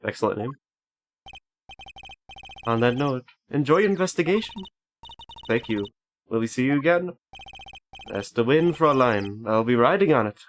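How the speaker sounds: airy, lilting character farewell; lightly theatrical parting lines with lifted pitch; put-on character voice. Gamer voicing his goodbye to Fräulein, put-on lilting voice. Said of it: "I like that voice I just did for him".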